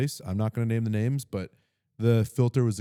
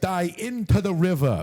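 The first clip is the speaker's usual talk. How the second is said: replaying the odd Chicago voice, higher and slow; mocking his own failed Chicago accent; imitating own weird accent; 9 semitones higher than usual. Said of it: "I was like".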